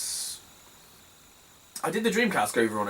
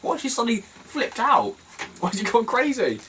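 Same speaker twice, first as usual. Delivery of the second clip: much higher gossiping bystanders; mock bystanders; 10 semitones higher than usual. Imitating car boot crowd gossiping about her, much higher mock. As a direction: voice the shocked crowd, pitched up. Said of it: "Everyone's like".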